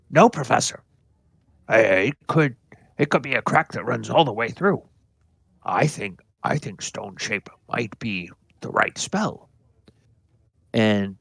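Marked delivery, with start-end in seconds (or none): 0.1-9.5 higher, quick eager student answering; a lightly voiced dwarf student, eager. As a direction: blurt out the answer keenly to the professor.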